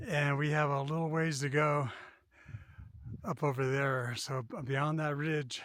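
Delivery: out of breath from the climb; winded, pushing out each phrase; breathless at high altitude. Real, not acted. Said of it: "The air is thin".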